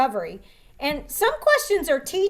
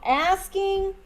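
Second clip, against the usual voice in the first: very slow, spaced out; deliberate dictating pace; slow dictation; much slower than usual. Shown as a demonstration. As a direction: trainer repeating the rule slowly. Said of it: "write this down".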